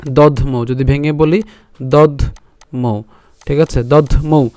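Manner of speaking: slow "দধ্মৌ" with দ and ধ run together; Sanskrit cluster demo. Shown as a demonstration. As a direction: hit "দধ্মৌ" carefully, syllable by syllable. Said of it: "দ আর ধ একসাথে উচ্চারণ করলাম".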